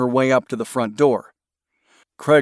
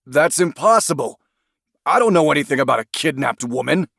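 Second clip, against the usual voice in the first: fast, rattled protest; flustered denial; 4 semitones higher, faster than usual. Acted. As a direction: deny it in a rush. Suspect denies the accusation.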